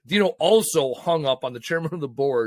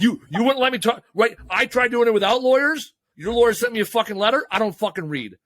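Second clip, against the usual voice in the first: raised, louder, higher indignant rant; mock telling-off; 7 semitones higher, 3 dB louder than usual. Speaker mock-lecturing the other party, a raised indignant rant. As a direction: throw it at them like a fed-up opponent.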